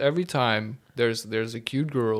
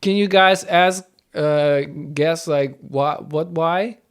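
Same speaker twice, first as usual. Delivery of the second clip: incredulous, louder higher mock; exasperated whining why; imitating her; 3 semitones higher, 8 dB louder than usual. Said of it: "She just goes like".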